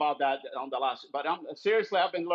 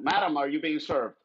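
put-on British sitcom accent; 4 semitones higher than usual. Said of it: "British comedy shows".

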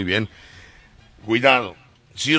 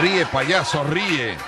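grand poetry declamation; 4 semitones higher, 3 dB louder, slower than usual. Retold or imitated. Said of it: "declamando la poesía".

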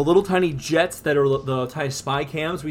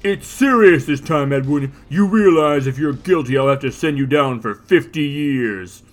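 stern judge voice; 4 dB louder than usual. Acted. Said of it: "Dredd grimaces and talks to him".

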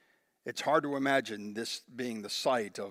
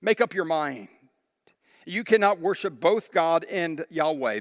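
Elijah scolding; 2 semitones higher, 5 dB louder than usual. Acted. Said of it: "It's like he is saying".

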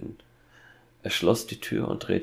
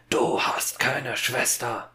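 slow, forceful exclamation, pitched up; angry outburst; 5 semitones higher, 3 dB louder, slower than usual. A narrator's reading. Father bursting out at his son about a sister, angry outburst. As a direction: burst out, voice raised and drawn out. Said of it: "platzte es aus dem Vater heraus".

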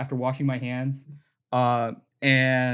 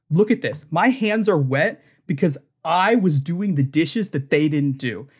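fake manager; 3 semitones higher than usual. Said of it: "I wanna mess with her".

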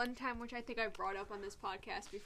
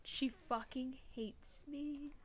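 whisper; 3 semitones higher, 5 dB quieter, slower than usual. Real, not acted. Whispered complaint about the cat.

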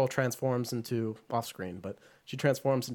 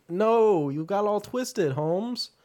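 mock boy voice; 8 semitones higher, 5 dB louder, much slower than usual. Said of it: "he's like".

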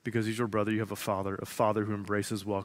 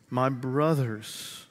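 intimate and affectionate; much slower than usual. Shown as a demonstration. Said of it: "This is intimate and affectionate language".

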